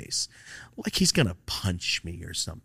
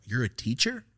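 a first, quieter unsure question; mild disbelief; 3 semitones higher, 4 dB quieter than usual. Retold or imitated. To the scruffy teacher, a quiet doubtful question. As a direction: ask it half-believing, rising at the end.

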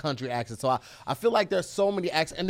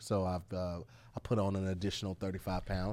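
intellectual voice; 6 semitones lower, 5 dB quieter than usual. Pretend. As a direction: speak with purpose. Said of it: "So that's how this voice".

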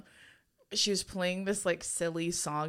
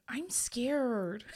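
meme quote; 5 semitones higher, 3 dB quieter than usual. Retold or imitated. Quoting a Vine.

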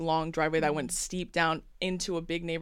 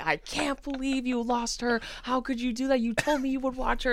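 higher, indignant retelling of a chewing-out; retold angry scolding; 6 semitones higher than usual. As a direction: imitate telling someone off in a raised pitch. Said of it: "I'm screaming at her partner".

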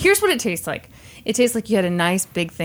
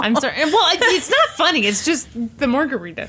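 stifled giggles; 4 semitones higher than usual. Real, not acted. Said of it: "you are trying not to laugh right now".

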